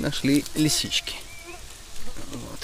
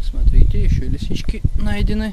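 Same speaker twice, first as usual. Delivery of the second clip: excited; 6 semitones higher, 4 dB louder than usual. Real, not acted. Excited find of chanterelles.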